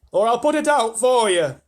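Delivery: high, loud threat; threatening shout. A narrator's reading. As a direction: bark the threat upward. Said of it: "shouted the centipede".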